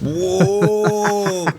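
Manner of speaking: high, drawn-out whoa of shock. Real, not acted. Podcast host reacting to a bleak answer, shocked. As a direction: let out a high, startled whoa.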